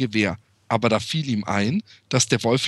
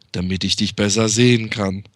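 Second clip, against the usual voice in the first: lower, sly wolf answer; 5 semitones lower, 3 dB louder than usual. Acted.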